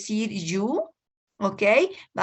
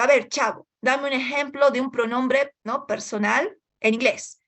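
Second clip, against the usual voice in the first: mildly annoyed teacher; 4 semitones higher than usual. Retold or imitated. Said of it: "el profesor Girafales molesto le pregunta".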